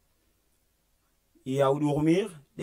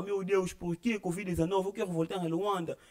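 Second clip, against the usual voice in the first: mock tearful lament; 4 semitones higher than usual. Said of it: "E começou a chorar".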